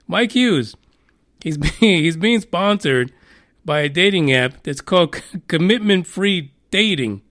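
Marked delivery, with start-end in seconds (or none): 1.4-2.0 trying to talk through a giggle; cracking up; laughing. Real, not acted. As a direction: laugh breaks through mid-word. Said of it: "I'm trying to compose myself".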